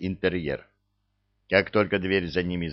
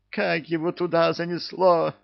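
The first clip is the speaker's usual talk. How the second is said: much higher exclamation of dismay; exclaiming; 9 semitones higher than usual. A narrator's reading. The witch reacting to the news, startled exclamation. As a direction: cry out in disbelief. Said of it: "воскликнула ведьма".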